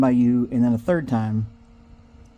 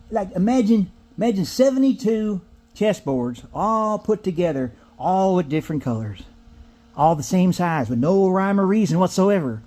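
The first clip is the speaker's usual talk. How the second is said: a hint of an old man grumbling about the old days; grumpy old-timer; 3 semitones higher than usual. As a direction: grouse lightly like an old-timer.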